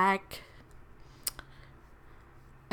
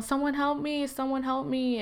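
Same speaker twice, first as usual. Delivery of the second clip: higher-pitched cry for help, held back in volume; retold scream; 5 semitones higher than usual. Victim retelling the call for someone to help, muted mock scream. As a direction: re-enact screaming for help without the loudness. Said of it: "I'm screaming and I'm screaming for someone".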